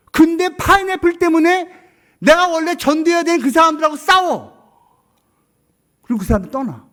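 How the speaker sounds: high, loud climactic preaching; fervent preaching. Real, not acted. 설교자가 성도에게 절정에서 외치듯 크게. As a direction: drive the point home with full force.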